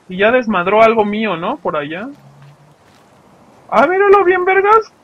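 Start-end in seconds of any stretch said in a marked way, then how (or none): 3.7-4.9 much higher, louder excited cry; excited outburst. Real, not acted. Gamer pointing out a creature to viewers, excited squeal. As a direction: squeal it with delight.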